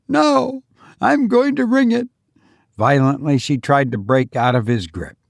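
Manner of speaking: high, insistent woman's voice; distraught mother digging in; desperate defiance. Acted. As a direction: refuse desperately, pitched high. Struggling desperately over the bell.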